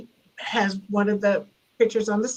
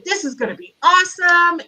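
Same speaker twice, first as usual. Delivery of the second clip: higher-pitched retold excitement; producers' hype; 7 semitones higher, 4 dB louder than usual. Producers hyping the show.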